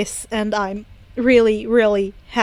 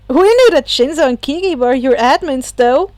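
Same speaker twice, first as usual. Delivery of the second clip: yelling; 2 semitones higher, 5 dB louder than usual. Acted. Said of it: "Kaminari yelled".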